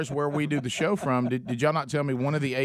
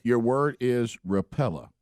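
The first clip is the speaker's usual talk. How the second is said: spelling bee announcer; 4 semitones lower, much slower than usual. Pretend.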